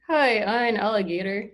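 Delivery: lightly voiced alligator puppet; gruff alligator. Shown as a demonstration. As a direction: try a gruff puppet voice, tentatively. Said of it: "give him a really gruff voice".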